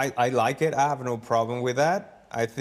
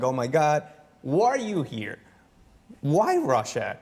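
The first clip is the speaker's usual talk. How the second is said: mock amazed local; 3 semitones higher than usual.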